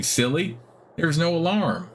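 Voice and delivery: put-on high, childlike guard spider; friendly spider voice. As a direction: innocent spider proudly explaining. Guard spider answers player.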